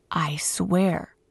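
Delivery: solemn whispered oath. Acted. King whispering his oath to the young man. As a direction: breathe the vow low and earnest.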